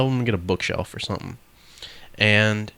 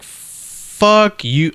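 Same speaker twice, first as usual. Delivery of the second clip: higher, louder burst of fake rage; mock angry retort; 10 semitones higher, 7 dB louder than usual. Telling off the preachy coworker in the head, mock loud. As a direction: snap back at the preachy coworker. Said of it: "I didn't say that".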